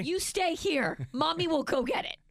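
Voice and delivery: mock mommy voice. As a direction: talk down like a mom to a little kid. Mock talking down to husband.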